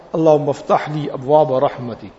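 mean every word as you say it; mindful dua. Shown as a demonstration. Worshipper pausing at the masjid door to pray, sincere and unhurried. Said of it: "Let me read my dua".

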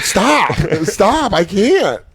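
high, helpless comic protest; put-on overwhelmed voice; mock pleading. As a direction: beg them to back off, playfully. Acts out intimidated man begging off.

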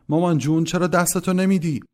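high, loud put-on wail for mama; mock-blind clowning. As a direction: ham it up as someone helplessly groping for mama.

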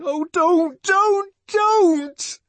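high, loud screamed plea. A narrator's reading. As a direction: scream it in desperate protest, very high. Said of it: "Then Linda screamed".

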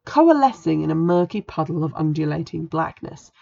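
eerie storybook narration; dramatic story reading. A narrator's reading. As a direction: read it like a spooky tale over music. Reads spooky novel passage aloud.

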